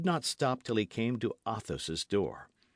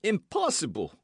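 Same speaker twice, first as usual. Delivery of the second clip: astonished; 10 semitones higher, 3 dB louder than usual. A narrator's reading. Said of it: "cried Grimaud".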